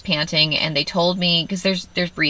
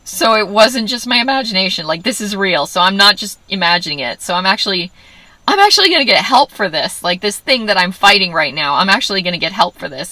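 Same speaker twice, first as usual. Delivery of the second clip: tearful relief; 4 semitones higher, 5 dB louder than usual. Retold or imitated. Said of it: "I burst into tears".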